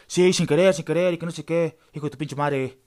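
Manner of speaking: loud sarcastic echo of the excuse; mocking anger. Woken passenger mocking the man's excuse, loud and sarcastic. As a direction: throw his excuse back at him with scorn.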